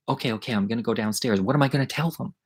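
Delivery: soft voiced stand-in for a whisper. Friend agrees while hiding in the closet, hushed. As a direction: imitate a hushed, hurried reply. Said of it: "And we're whispering".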